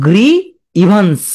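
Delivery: গ্রি, a beat, then ইভান্স; memory-aid reading of গ্রি ইভান্স in two parts; split pronunciation. Shown as a demonstration. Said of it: "মনে রাখতে পারো". (গ্রি ইভান্স ভেঙে উচ্চারণ)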